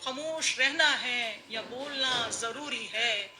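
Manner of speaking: measured mushaira verse delivery; ghazal recitation. Acted. (मुशायरे में ग़ज़ल पढ़ने का अंदाज़)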